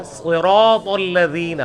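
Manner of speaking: صراط with thick s and heavy t, drawn out slowly; slow, careful recitation of صراط الذین with full-mouthed consonants; correct heavy letters. Shown as a demonstration. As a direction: stretch صراط, thickening its s and final t. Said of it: "وہ ہے".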